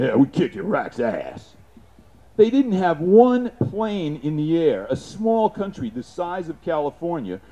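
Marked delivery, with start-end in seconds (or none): 0.0-1.5 macho gloating. Retold or imitated. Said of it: "macho American men thinking".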